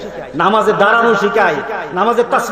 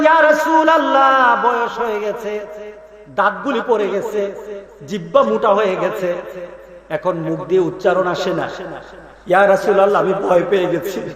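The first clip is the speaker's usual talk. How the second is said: put-on old man's plea; 3 semitones lower than usual. Old man pleading with Prophet.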